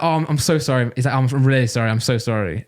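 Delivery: mildly mocking, insincere apology; passive-aggressive apology. Train passenger fake-apologizing to him, passive-aggressive. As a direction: imitate a hollow, over-repeated sorry. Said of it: "he's being passive aggressive".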